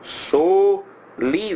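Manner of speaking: "Sou li-" sounded out in pieces, cut off after li; writing aloud. Shown as a demonstration. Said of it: "Aí tô lá eu escrevendo".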